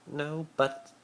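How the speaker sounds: high, rising protest; whine. A narrator's reading. Draco protests Harry's question, whiny. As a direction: start to whinge. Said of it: "started to whine".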